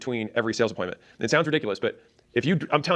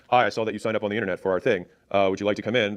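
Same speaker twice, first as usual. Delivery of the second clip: lower, plain, unenthusiastic caller; disinterested sales call; neutral tone; 4 semitones lower than usual. Shown as a demonstration. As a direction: read it like a dull script. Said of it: "If I'm, like, neutral".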